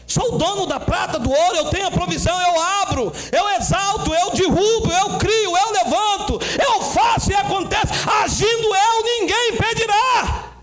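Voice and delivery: building, high-pitched declaration of power; God proclaiming. Acted. God tells the believer of his power, proclaiming. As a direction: climb phrase by phrase to a ringing climax.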